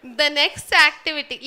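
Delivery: 提高音量招呼大家; 大声重复一遍让所有人听见. Real, not acted. Repeats louder to get attention.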